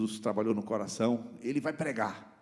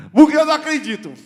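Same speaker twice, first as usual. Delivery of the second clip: laughing; 14 dB louder, faster than usual. Real, not acted. Laughs at his own joke.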